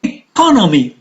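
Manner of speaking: "Economy" with the second syllable stressed. Shown as a demonstration. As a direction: lean on the "co" in "Economy". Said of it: "On the second syllable".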